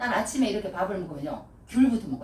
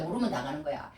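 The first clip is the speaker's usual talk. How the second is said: 모르면 당하는 거야 said softer and lower, repeated to himself; quiet aside; 7 semitones lower, 7 dB quieter than usual. Shown as a demonstration. Preacher repeats the point softly to the congregation, quiet echo. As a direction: drop the voice to a low echo on 모르면. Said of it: "모르면 당하는 거예요".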